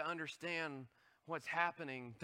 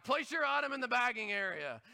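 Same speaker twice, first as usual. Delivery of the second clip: machine voice; 5 semitones higher, 4 dB louder than usual. Retold or imitated. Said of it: "it yells at you".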